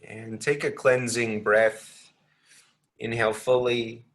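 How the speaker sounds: unhurried meditation guidance with long pauses; lightly measured, spacious meditation delivery; guided meditation. Real, not acted.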